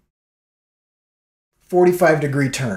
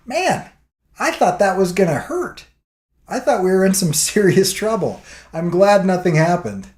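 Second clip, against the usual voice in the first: a touch of higher relief, with a laugh; relieved amazement; 3 semitones higher than usual. Retold or imitated. Teller after the crash, mildly relieved. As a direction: breathe out surprised relief.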